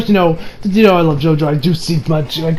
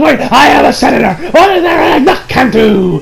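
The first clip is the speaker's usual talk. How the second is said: higher, flustered mock protest; mock bewildered panic; 5 semitones higher than usual. Senator stuck in the car, hammed-up bewildered panic. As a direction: protest in confusion, rising higher.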